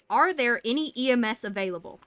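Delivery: loud, pissed-off radio call; forceful. Retold or imitated. Angry call over the radio for EMS, loud and forceful. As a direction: bark it out, fed up. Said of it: "I said forcefully".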